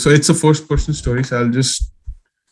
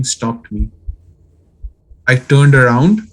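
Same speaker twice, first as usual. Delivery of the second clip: lightly creepy, measured horror-story narration; understated campfire-tale storytelling; attempted creepy voice. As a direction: read it like a scary story, pausing between sentences. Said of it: "do my creepy voice".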